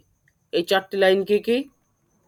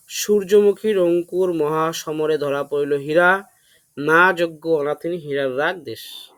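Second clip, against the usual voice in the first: "সূর্যমুখীর অঙ্কুর" spoken slowly, word by word; slow deliberate recitation. Shown as a demonstration. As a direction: spell out each word of the memory line slowly. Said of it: "এটা করেছি হচ্ছে". (ধীরে ধীরে স্পষ্ট করে আবৃত্তি)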